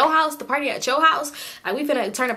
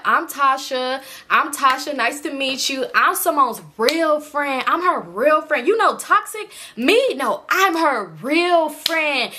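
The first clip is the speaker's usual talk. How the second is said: mock tipsy, emphatic drawl; drunk introduction; 3 semitones higher, slower than usual. Drunk friend introducing herself to Joe, slow and insistent. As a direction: drag out the words like a drunk friend staking a claim. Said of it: "mind you, we all drunk. So it's like".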